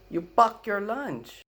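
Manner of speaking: put-on high, slow Filipino-accented line through a laugh; grandma's Filipino accent. Grandma repeating her lunch question in a Filipino accent. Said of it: "what did grandma just say".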